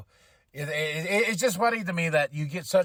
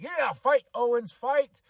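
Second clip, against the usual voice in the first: cheering; 5 semitones higher, 4 dB louder, slower than usual. Retold or imitated. Cheering on a wrestler.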